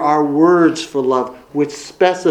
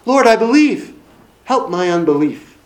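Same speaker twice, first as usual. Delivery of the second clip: pleading father; 4 semitones higher than usual. Acted. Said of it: "that man in the New Testament who said to Jesus".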